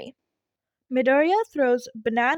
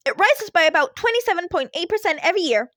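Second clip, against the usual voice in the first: put-on kid voice; 7 semitones higher, 4 dB louder, faster than usual. A narrator's reading. Kid Midoriya voiced from vent.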